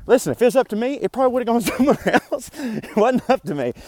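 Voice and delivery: high-pitched protest. Real, not acted. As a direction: voice jumps up, laughing a bit.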